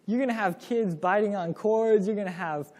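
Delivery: imitating a shocked parent hearing "no rules"; incredulous. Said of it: "in people's minds, they're thinking".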